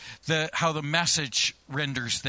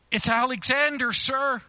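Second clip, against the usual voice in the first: loud answer; 7 semitones higher, 3 dB louder than usual. A narrator's reading. Soldier repeats louder.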